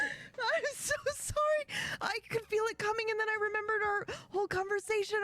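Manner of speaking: breathless after laughing hard. Real, not acted. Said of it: "crying laughing".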